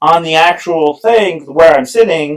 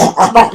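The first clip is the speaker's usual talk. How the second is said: higher, guttural German-like gibberish; harsh mock German noise; 7 semitones higher than usual. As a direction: imitate scary-sounding German in one burst. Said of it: "that's the scariest. That language scary".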